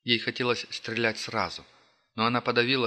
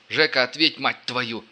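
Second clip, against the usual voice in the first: angry calling out; 3 semitones higher, 7 dB louder than usual. Acted. Calling wounded comrade angrily.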